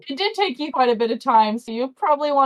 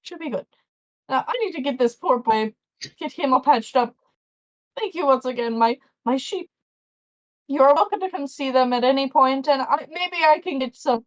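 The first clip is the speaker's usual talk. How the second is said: farmer voice; 2 semitones higher than usual. Acted. Farmer keeps talking.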